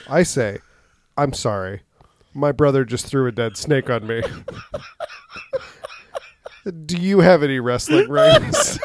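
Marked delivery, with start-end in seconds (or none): 1.2-8.8 put-on high girly voice, laughing through it; man doing a woman's voice. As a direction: squeak it out in a high girl voice. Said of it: "in this high-pitched girl voice".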